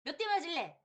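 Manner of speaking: threatening mother. Retold or imitated. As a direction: lean in on the kid. 체벌하는 엄마 흉내. (엄마가 아이를 위협하듯 높고 크게)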